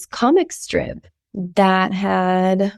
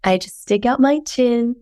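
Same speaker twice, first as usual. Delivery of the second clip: sick voice. Real, not acted. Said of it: "enjoy my sick voice".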